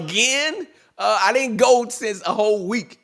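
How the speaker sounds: high, mock outraged wife; wife's voice. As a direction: play the wife, shocked that he's going out again.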